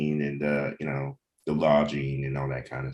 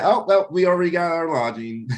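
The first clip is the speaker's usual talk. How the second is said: much higher and louder, bubbling over; excited mock reaction; 12 semitones higher, 5 dB louder than usual. Host acting out his delighted reaction to friends, high and loud. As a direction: squeal like you're thrilled you're already set.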